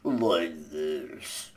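very slow, low, soft gloomy donkey voice; mopey slow donkey; Eeyore. Shown as a demonstration. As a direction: drag every word out, sad and low. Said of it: "low, depressing voice".

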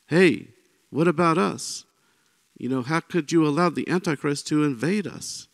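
high, pleading call of a city that feels forgotten; a mild mock cry of complaint pitched high; crying out to God. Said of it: "they'll cry out".

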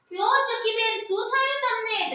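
lightly voiced monkey asking gently; concerned monkey. Monkey asks the hurt sparrow.

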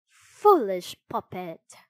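loud, slow buzzing scold; buzzing cricket voice. A narrator's reading. Cricket's ghost chiding the puppet, buzzy and loud. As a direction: draw it out like a chiding insect. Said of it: "buzzed a faint but familiar voice".

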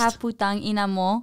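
modestly spoken up on request; a bit firmer. Real, not acted. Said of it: "Say it with your chest".

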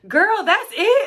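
high, loud imitation of mom; hammed-up high-pitched disbelief; incredulous mom. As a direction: exclaim it as an unimpressed mother. Mom's underwhelmed reaction, retold.

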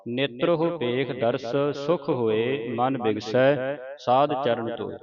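scripture recitation. Acted. Teacher reciting Gurbani for students to follow, measured recitation. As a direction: recite each phrase clearly, pausing between phrases.

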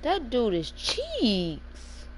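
very slow, dragged-out dismissal; slow scornful verdict. Real, not acted. Streamer slowly dismissing a bad teammate, scornful. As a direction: drawl it out in contempt.

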